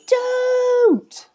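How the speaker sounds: high, urgent shout. Acted. Zookeeper stopping the police call, shouting. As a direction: cry out to stop him. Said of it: "someone shouted".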